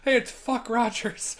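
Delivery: high, slow cartoonish skit voice; put-on high-pitched skit quote; skit catchphrase. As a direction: call it out high like a sketch show gag. Quoting a skit's catchphrase.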